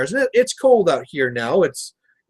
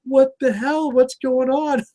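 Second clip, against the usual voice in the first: high-pitched comic bewilderment; imitated freak-out; 8 semitones higher, slower than usual. Imitating his wife watching the car chase, mock freak-out. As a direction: mimic a baffled onlooker, voice way up. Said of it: "the wife is just like".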